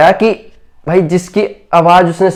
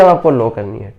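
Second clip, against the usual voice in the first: dropped much lower and softer; quieter demo; 8 semitones lower, 5 dB quieter than usual. Shown as a demonstration. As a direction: let the voice sink low and soft to show it. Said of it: "बताया जाएगा कि अब आपको frequency".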